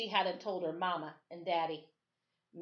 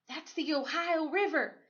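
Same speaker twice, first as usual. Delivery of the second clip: whispered guide; 9 semitones higher than usual. A narrator's reading. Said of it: "Thaddeus whispered".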